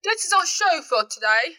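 put-on British accent. Co-host signing off the show in a shaky British accent. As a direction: try out an amateur British accent. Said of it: "Please tell her don't do accents anymore".

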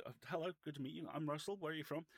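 high, quick retold greeting; enormous Welsh man. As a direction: imitate a big man's brisk, high-pitched hello. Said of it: "this enormous Welsh man".

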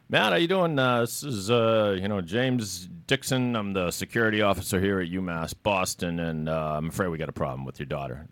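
mock-friendly campus cop voice; prank caller voice. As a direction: play the bogus security officer, breezy. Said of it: "and he goes".

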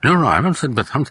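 mock rapid-fire protest; speaking too fast. Brother cutting in on his father, speaking too fast. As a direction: imitate a fast talker hurriedly denying it. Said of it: "even that you're speaking fast".

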